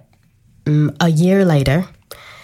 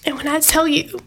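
whisper; 5 semitones higher, 3 dB quieter than usual. Real, not acted. Tearful testimony, whispered quotes.

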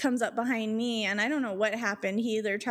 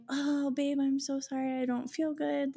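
higher, apologetic poor-me voice; feigned sickness; 5 semitones higher than usual. Retold or imitated. Girlfriend calling boyfriend to cancel, feigning sickness. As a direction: put on a mild sick-girl whine. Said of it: "I'm sick".

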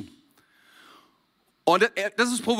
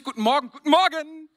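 bright morning greeting, voice much higher, rising at the end; cheerful greeting; 8 semitones higher than usual. Shown as a demonstration. Preacher demonstrating a friendly morning greeting, cheerfully high. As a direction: sing out a happy good morning, lifting the voice at the end. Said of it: "ich sag immer fröhlich".

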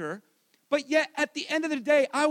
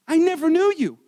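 louder, hammered-home declaration; forceful repeat; 3 semitones higher, 6 dB louder than usual. Acted. Preacher quoting Jesus' rejection, forceful declaration. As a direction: repeat it with weight and volume.

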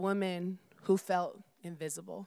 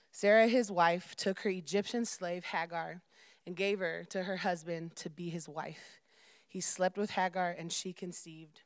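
scripture reading. Real, not acted. Reads Genesis chapter aloud to congregation.

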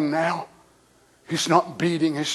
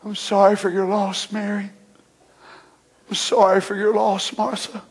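voicing Jesus; faster than usual. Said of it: "And he took his robe".

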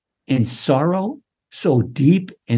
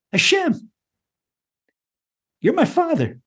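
sincere prayer; 13 semitones higher than usual. Shown as a demonstration. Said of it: "Say that".

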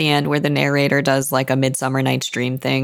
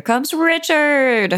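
higher, drawn-out mock fanfare; mock announcing; 11 semitones higher, much slower than usual. Podcast host heralding Richard's entrance in the story, mock announcing. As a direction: announce him slowly, pitched up.

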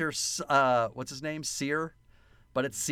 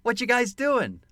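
crocodile; 7 semitones higher than usual. Retold or imitated. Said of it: "what the crocodile's voice sounds like".

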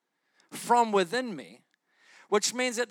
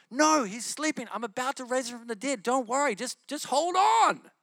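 casual laid-back Jesus; 4 semitones higher than usual. Retold or imitated. Preacher imagining himself as Jesus calming mourners, high and breezy. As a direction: play a chill bro telling everyone to relax. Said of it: "I'd be like".

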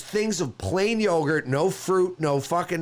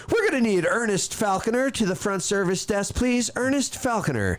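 higher, imitated airport paging announcement; loudspeaker page; 4 semitones higher than usual. Man imitating the desk paging him over the loudspeaker, announcer-like. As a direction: page a passenger over the lounge speaker. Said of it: "over the loudspeaker".

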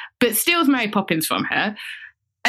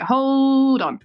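mock indignant Irish woman; 3 semitones higher, 3 dB louder than usual. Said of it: "she's like".

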